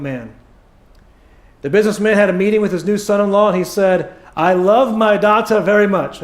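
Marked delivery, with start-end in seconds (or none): 4.3-6.2 rough attempt at a Jewish accent; lightly attempted Jewish accent. Businessman to his new son-in-law, attempted Jewish accent. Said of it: "good Jewish accent".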